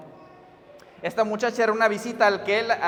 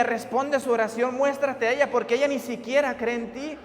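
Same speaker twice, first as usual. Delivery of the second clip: mildly imploring, lilting on raised pitch; retold tearful plea; 3 semitones higher than usual. Youth leader praying for the girl's faith, mildly pleading. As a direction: plead in prayer, with a touch of urgency. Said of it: "se echó a temblar llorando".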